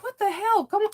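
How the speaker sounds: imitating her own incredulous reply to her son. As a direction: retell your own disbelief. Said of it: "I'm like".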